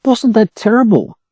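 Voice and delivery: whispered gossip, high; shocked whisper. A narrator's reading. Duck whispering to the hen about the attack. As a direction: hush it like scandal.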